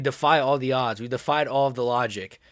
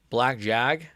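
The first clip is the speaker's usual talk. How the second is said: puzzled; 3 semitones lower than usual. Real, not acted. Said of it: "What does that even mean".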